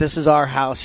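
ordinary talk

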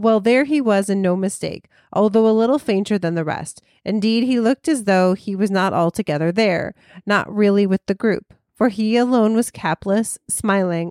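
ordinary delivery

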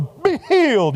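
high, churchy lady voice, pronouncement style. Retelling how a man would come up to the speaker: Church Lady voice. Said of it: "He'd come in with the church voice".

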